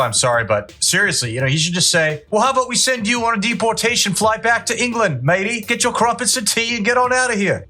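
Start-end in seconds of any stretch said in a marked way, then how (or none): 2.3-7.7 high-pitched, hammed-up British accent; bad British accent. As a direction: tell someone off in a badly faked British accent. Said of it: "best British accent, guys, so if it's terrible".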